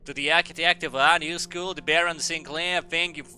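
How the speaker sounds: lightly put-on formal speechmaker voice; orating headmaster. Headmaster thanking the architect, lightly orating. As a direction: read it out as a ceremonial address.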